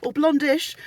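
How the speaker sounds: high, loud gushing Oh my God; mock excited coworker. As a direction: play the gushing new colleague spotting dyed hair. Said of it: "where it's like".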